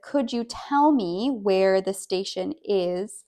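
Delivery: slow, careful, polite question; slow model sentence. Shown as a demonstration. Teacher slowly models a polite question. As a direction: say it slowly and clearly for learners. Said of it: "it's phrased as a statement".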